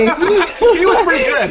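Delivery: high, drawn-out words through laughter; real laughing aside. Real, not acted. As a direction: say it slowly while cracking up. Joking about Hemingway, both laughing.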